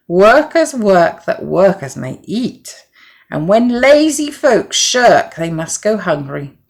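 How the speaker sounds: slow, firm and rising; stern moral. A narrator's reading. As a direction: deliver the lesson sternly. Hen's moral rebuke.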